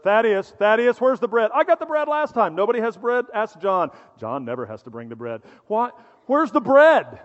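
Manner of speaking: hammed-up argument over the bread; bickering disciples. Disciples squabble over who forgot the bread, mock-heated.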